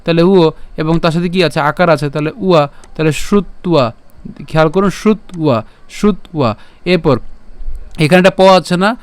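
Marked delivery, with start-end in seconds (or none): 3.2-6.5 শ্রুত্বা as "shrut, ua"; broken-down pronunciation. Shown as a demonstration. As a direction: split শ্রুত্বা before the ua. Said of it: "উয়োর মতো হবে". (শ্রুত্বা ভেঙে "শ্রুত উয়া")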